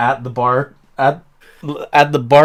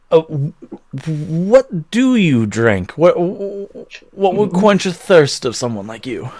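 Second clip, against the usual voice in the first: nervous stammer; 4 semitones higher, slower than usual. Acted. Halfling barkeep stammers at huge customer.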